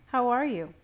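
high, loud, leering mother; false friendliness from a leering mother. A narrator's reading. Mother checks in on her unwilling son, leering. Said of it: "My mother's voice leered".

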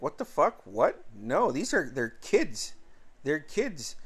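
mildly incredulous, questions rising; retold indignant disbelief. James defends threatened kids to a bully, mildly acted indignation. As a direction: imitate a protesting dad, lightly indignant.

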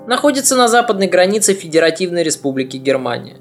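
ordinary delivery

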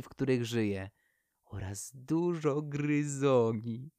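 lightly voiced owlet, slowly daydreaming; dreamy owl. The little owl dreamily tells the poplar what lies beyond the forest. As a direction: drift off into a happy daydream. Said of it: "rozmarzyła się Sówka".

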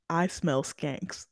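slow, deadpan movie-line imitation; mock disdain. Podcaster quoting the film's girlfriend sniffing out rivals, slow mock disdain. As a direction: quote it low-key, drawing the words out. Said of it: "she sniffs the air and goes".

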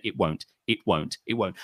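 low, quiet flat refusal repeated; stubborn customer refusing the fee. Retold or imitated. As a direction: dig in and refuse. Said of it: "you say".

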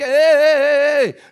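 high, shouted wake-up call; loud interruption. Real, not acted. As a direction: cut the excuse off with repeated shouts. Cuts off his mocked excuse. (gritando para interromper)

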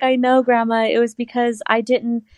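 high, sheepish voice; explaining to grandma, sheepish and high; sheepish younger self. Retold or imitated. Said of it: "I was like".

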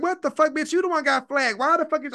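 Bree's imitated annoyance at Nika; mock angry Bree. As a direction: play Bree fed up and pissed off. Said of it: "she was pissed".

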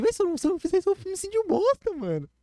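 high, urgent self-push; self-pep talk. Retold or imitated. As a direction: talk yourself into it. Hyping himself up. (se encorajando, agudo e urgente)

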